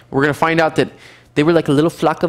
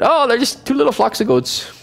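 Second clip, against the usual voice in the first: scoffing; 9 semitones higher than usual. Retold or imitated. Scoffing enemy view.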